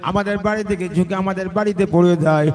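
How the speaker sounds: chanted lament, high at first then settling; imitated tearful children. Tied children explain to the Prophet, chanted tearful lament. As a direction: intone a child's plaintive explanation melodically. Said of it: "চোখের পানি রোনাজারি করে বলে".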